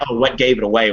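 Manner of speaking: sarcastic, stress on "gave". Retold or imitated. Teacher mocking an obvious remark, sarcastic. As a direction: lean on "gave" with mock surprise. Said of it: "And I'm like".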